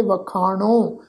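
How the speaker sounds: ਵਖਾਣੋ with a nasalised final vowel; ਵਖਾਣੋ ending nasal; nasal pronunciation. Shown as a demonstration. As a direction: say ਵਖਾਣੋ with the last vowel through the nose. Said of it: "ਨਾਸਕੀ tone ਵਿੱਚ ਪਾਠ ਉਚਾਰਨ ਕਰਾਂਗੇ".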